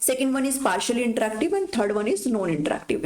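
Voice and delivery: slow, deliberate dictation of the list; slow read-out. Shown as a demonstration. Teacher reading the types to her students, slow and deliberate. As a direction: spell out each item slowly for note-taking. Reads slide points out slowly.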